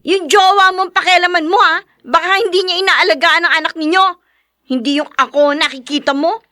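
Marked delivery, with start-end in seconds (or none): 0.1-4.1 angry retort. Acted. Sister snaps back at brother.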